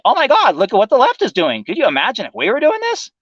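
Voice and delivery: hammed-up outraged whine; whiny right-winger. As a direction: squeal it like a pearl-clutching pundit.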